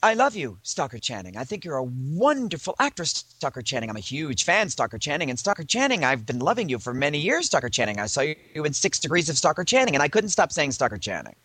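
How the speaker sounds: mildly hammed-up starstruck babble; compulsive gushing. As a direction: gush helplessly at your idol. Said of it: "then it kicked in".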